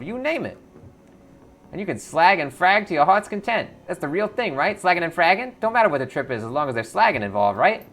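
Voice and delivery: high, loud street-hustler voice; twitchy orc clocker. Acted. Twitchy orc clocker greeting the three runners, high and loud. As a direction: greet them like a jittery street dealer.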